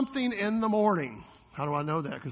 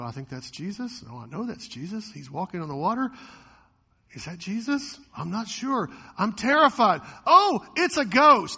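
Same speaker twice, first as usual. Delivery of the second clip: from hushed guess to loud scared cry; mock fright building; 5 dB louder than usual. Preacher acting disciples seeing Jesus, hushed to mock terror. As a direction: build from a murmur to a mock-terrified yelp.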